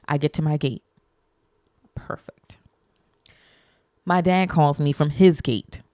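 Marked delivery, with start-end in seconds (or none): 1.9-2.6 breathy whisper, no voice; whispered perfect. Real, not acted. Traveller finally reaching her gate, whispered relief.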